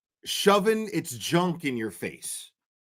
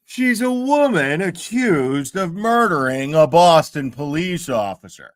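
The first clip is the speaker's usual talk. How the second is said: louder mock newscaster reading of Vinny; imitating Vinny; 6 dB louder than usual. Streamer mocking the host Vinny, in a louder mock anchor voice. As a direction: parody Vinny's grave anchor delivery. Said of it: "Vinny will still talk like this".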